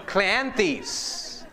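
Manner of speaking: Cleanthes as KLAN-theez, amused; cool-sounding pronunciation. Shown as a demonstration. Showing off a made-up pronunciation, Cleanthes as amused KLAN-theez. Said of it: "What would be a cool way to say that?".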